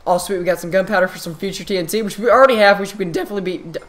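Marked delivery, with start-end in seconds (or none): 3.6-3.8 voice crack. Real, not acted. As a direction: voice cracking on wow. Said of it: "voice crack right there".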